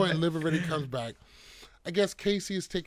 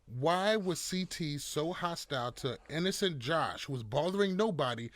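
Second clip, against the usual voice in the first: straight-faced sarcasm; 3 dB quieter than usual. Pretend. Host mock-defends innocent Josh to the panel, deadpan sarcasm. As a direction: feign innocent concern with a straight face. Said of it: "say that with a straight face".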